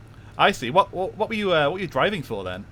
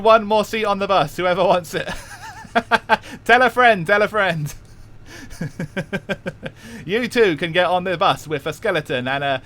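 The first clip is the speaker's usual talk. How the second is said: Cockney auctioneer; 4 semitones higher than usual. Pretend. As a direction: sell the bus seat like a market auctioneer, Cockney. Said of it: "When does the auction begin?".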